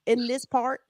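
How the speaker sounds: a hammed-up white Arkansas drawl; white Southern drawl. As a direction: play a white Southern sheriff with a lazy drawl. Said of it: "So I'm trying to give y'all my white".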